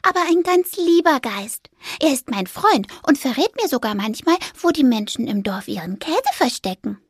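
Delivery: a little mouse vouching for her friend; cheerful mouse. Acted. Fipper reassures Fridolin about the ghost, light mouse voice.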